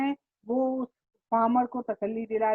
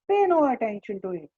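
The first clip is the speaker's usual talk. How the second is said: roared; slower than usual. Acted. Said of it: "my uncle Khusro roared".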